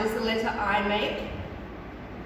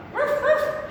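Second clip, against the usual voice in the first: high yappy puppet bark; dog bark; 13 semitones higher, 3 dB louder than usual. Pretend. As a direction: bark like a small cartoon dog.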